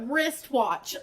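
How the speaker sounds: "wristwatch" said distinctly, s and t in place; deliberate, correct "wristwatch"; careful pronunciation. Shown as a demonstration. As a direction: think through "wristwatch" sound by sound. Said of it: "I have to think about that".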